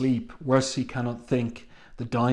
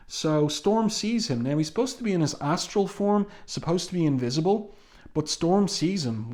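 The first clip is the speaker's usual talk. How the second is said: intrigued, wondering; 4 semitones higher than usual. Real, not acted. Intrigued about invisible Franklin.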